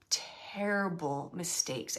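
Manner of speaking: "terrible" drawn out with weight; relayed admission, dwelling on "terrible"; stress on terrible. Retold or imitated. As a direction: lean slowly into the word "terrible". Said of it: "he's using that word terrible".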